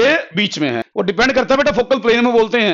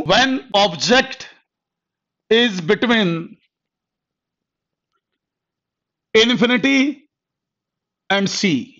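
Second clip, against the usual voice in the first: drawn out word by word; teacher dictating a heading to students, very slowly; very slow dictation; much slower than usual. Shown as a demonstration. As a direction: dictate slowly so they can copy it.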